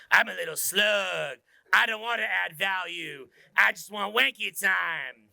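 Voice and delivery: slow, drawn-out mock confession; lazy slug persona. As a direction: drag out the words like a slacker. Acting the lazy wanky man.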